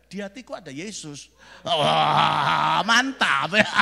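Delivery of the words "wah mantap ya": big loud wow; exuberant shout. Real, not acted. Preacher cheers his love of Indonesia, exuberant shout. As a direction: shout your delight to the whole room. Exclaims in proud delight.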